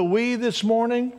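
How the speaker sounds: pointed question that spotlights "we"; stress on we. Shown as a demonstration. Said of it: "the difference in those two ... is that word".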